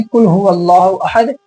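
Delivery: "कुल" with plain k where q belongs; mistaken Kaf recitation. Shown as a demonstration. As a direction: demonstrate the error, "कुल" on a front k. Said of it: "अगर हम ऐसे पढ़ देंगे".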